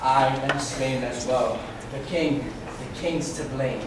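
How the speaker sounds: fading out as he dies; dying gasp. Acted. Laertes dying.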